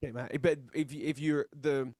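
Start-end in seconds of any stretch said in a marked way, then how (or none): 0.0-0.4 "mate" with a long nasal Australian A. Shown as a demonstration. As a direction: model "mate" the Aussie way. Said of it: "The A has to be a little more longer and nasal".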